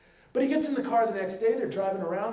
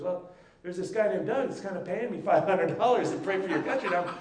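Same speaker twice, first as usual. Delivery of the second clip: sheepish laugh; 4 dB louder than usual. Retold or imitated. Bob sheepishly admits the deal.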